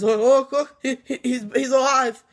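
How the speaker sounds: pointing it out in alarm. Retold or imitated.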